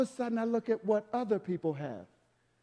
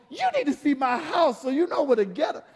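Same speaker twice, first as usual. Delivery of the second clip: joking retort; 3 semitones higher than usual. Retold or imitated. Retorting to rich man.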